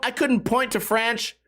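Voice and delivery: French slipped into "franch". Real, not acted. Flustered at being quizzed on history, tongue-slip "franch" for French. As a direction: say French with the vowel of ranch, ending in ch. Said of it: "I was trying to say Fr".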